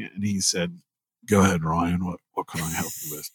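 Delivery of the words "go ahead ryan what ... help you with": a lightly attempted New Zealand accent, lower; a half-hearted Australian-ish accent, lower and softer, quickening at the end; Kiwi accent attempt. Quoting the cool digital artist Simon, in a light New Zealand accent. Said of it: "I don't do a very good accent, but I'll try".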